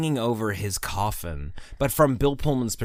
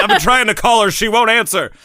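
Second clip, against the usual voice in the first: frantic shout; 12 semitones higher, 12 dB louder than usual. Retold or imitated. Frantic retold call.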